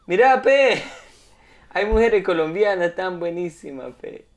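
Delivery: mock Peruvian accent with pe and a laugh; drunk Peruvian imitation. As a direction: ham up the drunk Peruvian guy. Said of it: "el Brad Pitt peruano".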